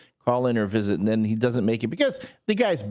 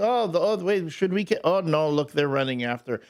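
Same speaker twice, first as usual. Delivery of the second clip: put-on higher, excited kids pointing at a puppy; childlike voices; 3 semitones higher than usual. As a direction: play two giddy boys spotting a dog. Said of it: "Hezekiah and Malachi got".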